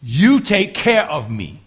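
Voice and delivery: slow, sincere, You and my leaned on; a son telling his father he trusts him; slow earnest declaration. Shown as a demonstration. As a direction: declare it slowly, heartfelt. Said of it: "That's what he's saying".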